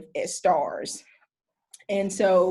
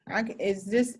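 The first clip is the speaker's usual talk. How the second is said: ordinary delivery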